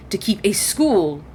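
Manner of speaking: a sudden whispered trail-off; whispered aside. Acted. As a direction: breathe "to keep a school" unvoiced.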